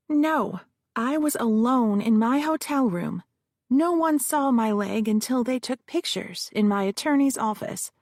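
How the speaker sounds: hint of a defensive witness; witness Josephine. Witness answers the lawyer, lightly voiced and nervous.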